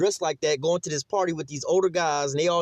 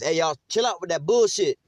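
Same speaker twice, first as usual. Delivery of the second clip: man raising voice; 3 semitones higher, 3 dB louder than usual. Retold or imitated. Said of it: "when a man raises up his voice".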